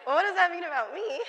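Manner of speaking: high and loud mock outrage; mock indignant. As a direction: play up the offence, pitched high and loud. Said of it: "And I think".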